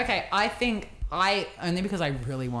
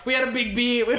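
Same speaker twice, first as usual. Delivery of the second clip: higher, louder tipsy brag; drunken boast; 5 semitones higher, 4 dB louder than usual. Retold or imitated. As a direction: slur out the brag like a drunk teen. Drunk kids calling dad.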